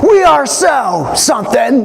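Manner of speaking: a touch of a schoolyard retort; indignant retort. Retold or imitated. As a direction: shout back in protest. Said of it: "the disciples are arguing back".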